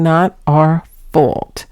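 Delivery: slow, drawn-out quote of the cat; dragged-out words. Retold or imitated. Cat owner quoting her cat Salem, words dragged out. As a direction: stretch out each word, unhurried. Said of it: "He tends to drag out his words".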